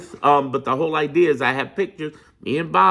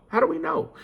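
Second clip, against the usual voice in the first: How do we know? with know rising high; asking it back in a much higher voice; mock questioning; 13 semitones higher, 4 dB quieter than usual. Echoing a doubter to viewers, high rising question.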